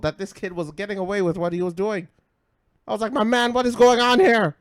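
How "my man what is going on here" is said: high, loud disbelief; raised-voice incredulous question; baffled challenge, retold. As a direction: call out in mock outrage.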